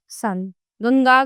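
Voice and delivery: "सन, गंगा" said very slowly, nasal sounds drawn out; slow teacher demo of nasal sounds. Shown as a demonstration. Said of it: "जैसे संत".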